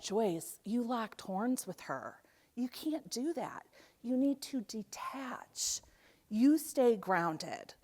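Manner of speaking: a lightly voiced calm older sister; calm advice.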